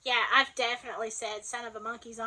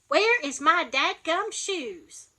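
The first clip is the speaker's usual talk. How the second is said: slow, louder fussing over lost shoes; mock exasperation; 4 semitones higher, 7 dB louder, slower than usual. Shown as a demonstration. Alabama mother fussing about missing shoes, mock exasperated. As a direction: grumble it like you can't find them.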